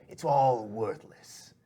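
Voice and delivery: controlled boss, stretching the words; displeased shadowy boss. Acted. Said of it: "He's like".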